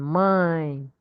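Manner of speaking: Mine said with a nasal vowel, humming through the nose; nasal mine demo. Shown as a demonstration. Teacher showing the class a nasal Mine. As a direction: let Mine ring in the nose. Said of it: "That's a nasal sound".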